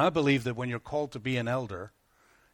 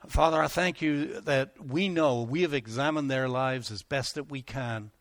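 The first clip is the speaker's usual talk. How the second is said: earnest spoken prayer over a couple. Acted. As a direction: pray it sincerely and steadily.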